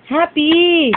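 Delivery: cheerful demo with stretched ending; pretend happy. Shown as a demonstration. Parent shows child how happy goes, pretend happy. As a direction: model happiness for a small child. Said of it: "Paano happy?".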